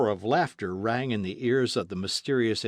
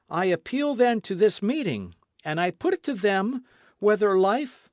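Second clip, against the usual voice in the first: confident orator; 8 semitones higher, 4 dB louder than usual. Acted. Ardan appeals to the meeting.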